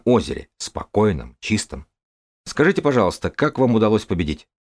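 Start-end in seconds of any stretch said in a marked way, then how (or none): 2.5-4.5 journalist voice. Acted. Journalist asks the champion.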